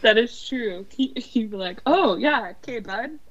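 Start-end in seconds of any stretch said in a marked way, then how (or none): 1.9-3.2 mock humoring. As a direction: imitate someone placating an odd fan. Imagined star humoring an awkward fan.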